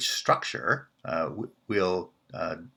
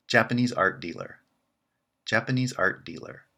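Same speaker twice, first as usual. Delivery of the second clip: Japanese art dealer with the peak on Japanese; stress on Japanese; 3 semitones higher than usual. Shown as a demonstration. Teacher contrasting a dealer in Japanese art. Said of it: "The contrast is with".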